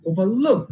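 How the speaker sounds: ওভারলুক with লুক punched; stress on the verb part. Shown as a demonstration. Teacher giving next example, ওভারলুক stressed on লুক. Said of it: "second সিলেবলে pressure দিব".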